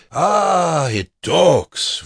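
high, loud exclamation; loud mockery. A narrator's reading. Prisoner letting the guard overhear, loud high mocking voice. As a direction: announce it mockingly for others to overhear. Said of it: "loud enough so the guard".

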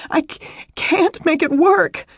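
high, stammering tearful wail; distraught crying. A narrator's reading. Upset woman confessing her failure to him, tearful wail. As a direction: break on the words as if sobbing. She cries on, hysterical.

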